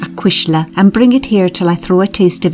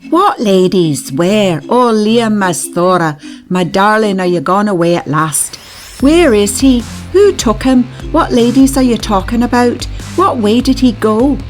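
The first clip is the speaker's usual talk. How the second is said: put-on mother questioning the children in distraction; distracted cry; 6 semitones higher than usual. A narrator's reading. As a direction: fire them off in panic. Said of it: "she cried in distraction".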